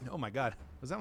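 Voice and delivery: normal talking voice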